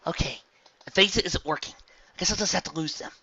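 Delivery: high, brisk hero voice; cocky plan on the fly; determined heroine. A narrator's reading. Rainbow Dash thinks aloud.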